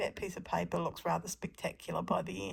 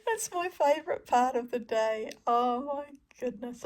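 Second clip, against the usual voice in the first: thrilled; 5 semitones higher, 4 dB louder than usual. Real, not acted. Thrilled with the print.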